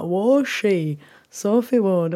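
put-on slowed-down northern English kid; a hint of northern English kids attempting Mandarin; lightly imitated northern English accent. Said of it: "like, northern kids, like, being like".

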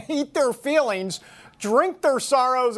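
slow, laughing through the words; reading while fighting a laugh. Real, not acted. Host reading a silly headline, laughing through it.

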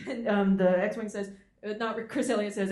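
usual speaking voice

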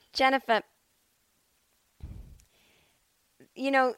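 a hint of mom, calmly informative; matter-of-fact mom. Mom casually warning her daughter in traffic, lightly imitated. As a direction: announce the bombs like a traffic update. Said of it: "she said it very matter-of-factly".

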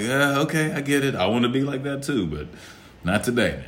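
high, soft slacker voice; mocking a lazy guy. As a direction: play the guy making excuses. Voicing the guy who won't.

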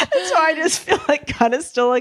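raspy voice after screaming; hoarse voice. Real, not acted. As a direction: speak with a worn, hoarse voice. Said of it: "I lost my voice screaming".

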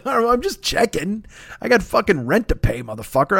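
high-pitched protest; mock defensive pleading. Job seeker answering annoyed contacts, mock defensive pleading. Acts out defensive reply to rebuff.

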